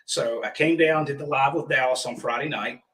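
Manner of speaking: hoarse froggy voice from pollen allergy; scratchy, pollen-clogged froggy throat. Real, not acted. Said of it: "I sound like Kermit the Frog".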